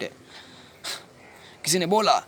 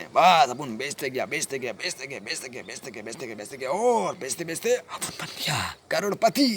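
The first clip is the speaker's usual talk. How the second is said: building boast. Acted. Dealer recounts selling his way to riches, building boast. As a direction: stretch the last phrase into a triumphant boast.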